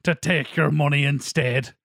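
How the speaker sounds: slow, low mock Irish accent; slow Irish-accented movie tough guy impression; Liam Neeson's Irish accent. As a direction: claim to be French in a drawn-out Irish accent. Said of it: "undermined by his Irish accent".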